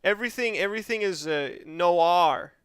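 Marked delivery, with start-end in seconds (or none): 1.6-2.5 "Noir" in an attempted American accent. Shown as a demonstration. Gamer showing his most American Noir, American accent. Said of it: "about as American as it can get".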